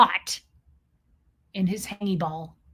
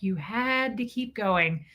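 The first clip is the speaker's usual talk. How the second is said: ordinary delivery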